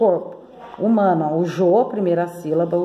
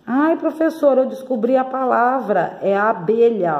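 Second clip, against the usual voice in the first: pupil's discovery; 3 semitones higher than usual. Acted. Teacher voices an excited pupil.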